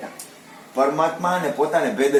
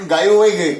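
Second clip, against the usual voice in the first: cowherd calling out; 5 semitones higher, 9 dB louder than usual. Retold or imitated. Cowherd reports cows wandered off.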